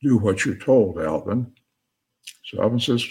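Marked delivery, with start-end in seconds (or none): 0.0-1.5 lightly voiced booming command; firm order, dropping on the name; a hint of a commanding voice from above. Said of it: "And the booming voice says".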